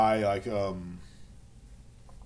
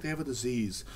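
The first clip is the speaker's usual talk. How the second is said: imitating defenders; 6 dB quieter than usual. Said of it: "everybody says, "Derek, they're sick".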